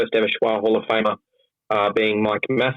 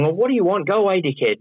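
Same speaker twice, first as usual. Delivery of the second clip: higher-pitched, exasperated brush-off; mock irritated; 8 semitones higher, faster than usual. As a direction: act out shooing away a pest. Acting himself answering the prank visitor.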